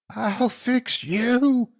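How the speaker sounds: very high, slow shrieking threat; monster shriek. Acted. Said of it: "she shrieked".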